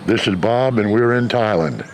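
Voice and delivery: muffled by a mask; talking through a mask; through a face mask. Real, not acted. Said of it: "Pardon the mask".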